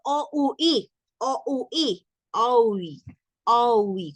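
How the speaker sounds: O U I said as three separate vowels; spelled-out vowels. Shown as a demonstration. Teacher breaking oui into vowels. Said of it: "¿Y cómo es eso?".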